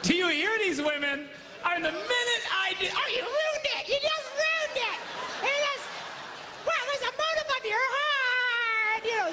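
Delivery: high, loud, playful indignation; mock outraged shout. Real, not acted. Preacher protesting to the laughing women, shouting high. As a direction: cry out in comic protest.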